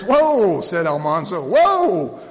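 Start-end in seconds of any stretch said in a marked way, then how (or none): 0.0-0.6 high, loud, drawn-out cry; hollered halt. A narrator's reading. Almanzo under flying hooves, hollering. Boy trying to halt bolting calves. 1.4-2.2 high, loud, drawn-out cry; hollered halt. A narrator's reading. Almanzo under flying hooves, hollering. Boy trying to halt bolting calves.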